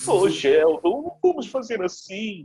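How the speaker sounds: high-pitched put-on Indian accent. Voice performer doing Raj's line to Sheldon, Raj voice copying Apu. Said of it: "jeitinho é quase uma cópia do Apu mesmo".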